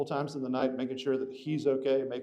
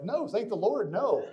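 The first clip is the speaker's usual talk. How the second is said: higher, laughing "no thank the Lord"; laughing refusal; 8 semitones higher than usual. Retold or imitated. Telling listeners about the fireman's teepee check, laughing. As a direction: laugh it off, horrified but amused. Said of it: "and I was like".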